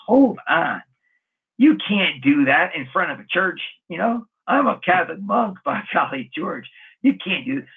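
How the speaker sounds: a hammed-up huff at the kissing couple; indignant inner voice. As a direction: bristle as if scandalized, half-joking. Indignant inner thought, church scene.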